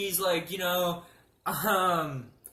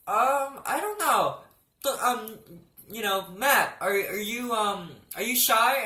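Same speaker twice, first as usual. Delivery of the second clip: hesitant higher mom voice; 4 semitones higher than usual. Retold or imitated. Imitating mom asking her son if he's shy. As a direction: mimic a flustered mom stammering.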